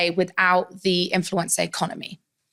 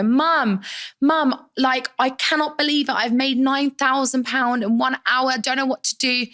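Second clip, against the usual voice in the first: excited; 5 semitones higher than usual. Retold or imitated. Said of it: "I ring my mum and I go".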